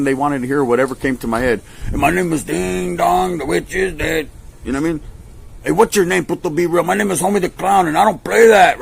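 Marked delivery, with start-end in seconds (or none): 1.9-4.3 sing-song joke alias, higher and slow; drawn out like a nursery line; mock fake name. Telling the cops a silly fake name, slow and high. 5.6-8.8 higher mock cop and reply; hammed-up interrogation; imitated exchange. A cop asks his name and he mocks back, higher. Cop questions, he answers mockingly.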